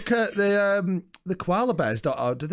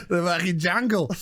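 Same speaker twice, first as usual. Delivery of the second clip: hammed-up Australian accent; mock an Australian accent; badly faked Australian twang. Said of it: "Australian accents".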